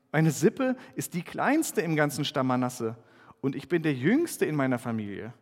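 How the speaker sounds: measured Bible reading with lightly acted voices; scripture reading. Pastor reads Gideon's story aloud to the congregation, measured reading. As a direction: read the passage to the congregation.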